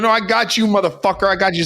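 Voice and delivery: hammed-up vengeful taunt; vengeful husband. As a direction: act out the furious husband's threat. Husband attacking the hanging man.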